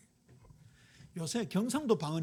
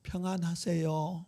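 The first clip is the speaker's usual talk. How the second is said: gentle greeting; slower than usual. Shown as a demonstration. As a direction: greet your neighbour slowly and tenderly. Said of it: "우리 옆 사람하고 인사해 봅시다". (천천히 부드럽게 건네는 인사)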